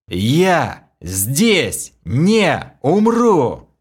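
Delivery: very slow, loud, high furious yell; slow loud enraged cry echoing off ice. A narrator's reading. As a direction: hurl it at the ice so it echoes. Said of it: "Мой яростный крик".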